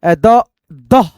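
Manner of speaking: drawn-out syllables अ, द, दह said one by one; sounding out slowly. Shown as a demonstration. Teacher sounding out a word's parts for students. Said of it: "फिर यहाँ पे".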